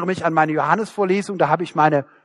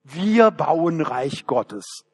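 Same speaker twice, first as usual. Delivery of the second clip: very slow, solemn "Wir bauen Reich Gottes" with a falling end on "wir"; mock humble piety; 2 semitones lower, much slower than usual. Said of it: "wir legen das Ganze demütig an".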